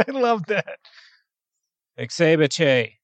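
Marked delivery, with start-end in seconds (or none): 2.0-2.9 flat, lifeless Exebiche; deadpan voice. Shown as a demonstration. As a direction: say Exebiche with no emotion. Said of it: "say it in a really deadpan voice".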